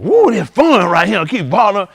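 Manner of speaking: faked delight. Shown as a demonstration. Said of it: "You gotta make it look fun".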